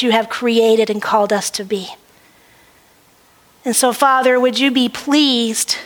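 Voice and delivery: earnest prayer voice, measured and steady. Acted. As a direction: pray it with reverence to God. Opening prayer to the congregation.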